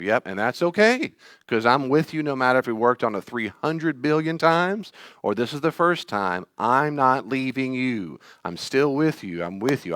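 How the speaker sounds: steady, comforting promise; a parent soothing a nervous child; reassuring self-talk. Retold or imitated. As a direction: hold the scared child close with your voice. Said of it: "And he tells me".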